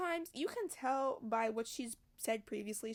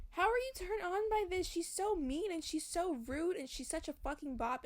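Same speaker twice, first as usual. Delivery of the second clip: higher, disbelieving rant; pitched-up exasperation at the hero; incredulous; 4 semitones higher than usual. Real, not acted. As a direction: ask it in high-pitched disbelief.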